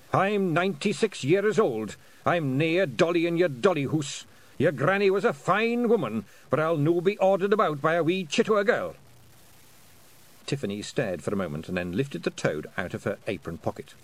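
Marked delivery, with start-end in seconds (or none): 0.1-8.9 higher, louder offended Scottish piper; an old man refusing orders from a girl; indignant old Scot. A narrator's reading. William indignant.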